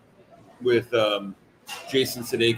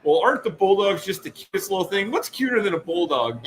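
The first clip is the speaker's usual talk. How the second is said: airheaded guest; 6 semitones higher than usual. Retold or imitated. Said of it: "she's like".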